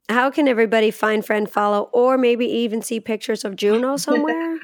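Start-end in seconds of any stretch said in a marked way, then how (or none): 1.9-4.6 talking to a dog. Acted. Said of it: "That's my dog voice".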